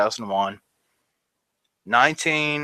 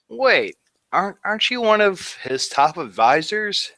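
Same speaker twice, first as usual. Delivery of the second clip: interrogator voice; 8 semitones higher than usual. Retold or imitated. Interrogator voiced in army story.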